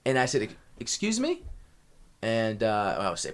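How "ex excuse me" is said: much higher, slow and disbelieving; incredulous excuse me. Retold or imitated. Confronting the owner's wife, slow high disbelief. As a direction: drag it out in disbelief.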